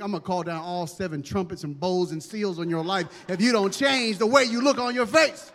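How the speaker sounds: hammed-up angry parent love; mock threatening parent. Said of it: "look at your face and think".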